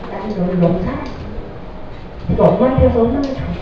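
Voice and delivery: put-on soft, tender words to a child; gentle loving reassurance to your child; tender i love you. Shown as a demonstration. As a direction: say it softly like a loving mother. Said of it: "꼭 해주셔야 돼요".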